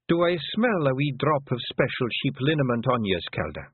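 put-on an old clan mother talking fondly of her lads; old Pictsie mother.

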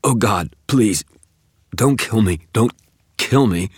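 high, loud plea for mercy; acted panicked pleading, each cry falling; desperate begging. A narrator's reading. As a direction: beg frantically for your life. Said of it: "he croaked".

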